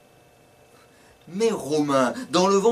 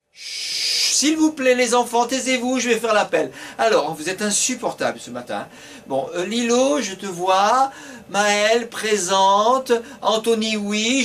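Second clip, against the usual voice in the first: higher, bossy teacher calling the roll; 5 semitones higher than usual. Acted. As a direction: hush the class and call names.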